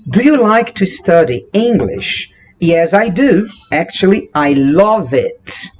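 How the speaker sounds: slow, careful model dialogue; slow example dialogue. Shown as a demonstration. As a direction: read both lines like a textbook. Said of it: "Por exemplo".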